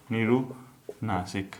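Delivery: निरुनासिक said very slowly and softly, syllable by syllable; slow repeat. Shown as a demonstration. Teacher repeats the new term slowly for students to note. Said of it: "दूसरा निरुनासिक".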